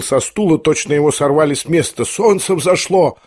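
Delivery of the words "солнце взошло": slow, high cry at the sunrise; exclaimed. A narrator's reading. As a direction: call it out slowly, higher, amazed. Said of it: "вскричал он".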